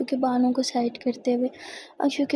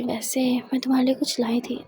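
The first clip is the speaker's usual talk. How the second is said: smiling. Acted. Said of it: "मुस्कुराते हुए कहती".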